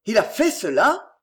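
a mildly appalled cry; shocked exclamation. Acted. Father learning of the man's misdeed, mildly shocked cry. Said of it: "S'écria monsieur Marondier".

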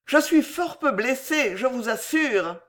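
consoling suitor reassuring his lady. A narrator's reading. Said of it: "d'une voix consolante".

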